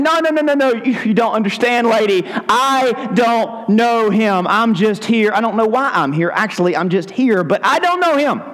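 flustered, stammering backpedal; mock-panicked denial; nervous denial. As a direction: squirm your way out of it. Peter nervously denying.

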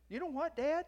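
high, loud retold opener, rising; animated quote. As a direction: call it out to Dad, pitched well up. Retold son addressing his dad.

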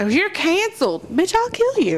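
high, shrieking threat; berserk rage. Pretend. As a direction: scream the threat at them. Pretend president threatening critics.

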